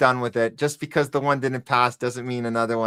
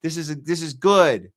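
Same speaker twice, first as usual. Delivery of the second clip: higher, lightly naive mock voice; mocking Trump supporter; 4 semitones higher than usual. Streamer imitating Trump supporters, light mock. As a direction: parody a smug believer, lightly. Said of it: "you're like".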